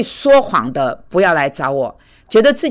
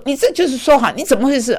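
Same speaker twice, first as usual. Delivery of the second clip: higher, sharp mock scolding; lightly voiced teacher losing temper; retold angry outburst; 7 semitones higher, faster than usual. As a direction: replay the outburst at the student. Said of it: "我发了脾气说".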